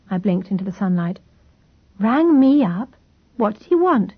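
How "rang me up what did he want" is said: startled. A narrator's reading. Startled on waking.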